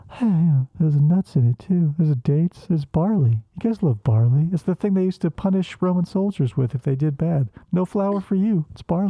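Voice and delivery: loud, pushy direction right on the mic; mock loud instructions about barley; mock director shouting. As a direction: bark the script at the actor. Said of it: "They're like".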